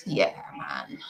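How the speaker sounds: reacting to a viewer's haul in a low, breathless mock dude voice; cool dude voice. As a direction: drop into a laid-back dude voice. Reacting to wine and hummus.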